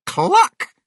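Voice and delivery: sudden loud cluck; chicken cluck. A narrator's reading. Narrator tells how the chicken went, sudden cluck. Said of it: "the chicken sat down and went cluck".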